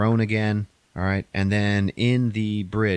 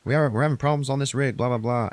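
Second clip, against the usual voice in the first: urgent mayday call; 5 semitones higher than usual. Retold or imitated. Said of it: "calls a mayday".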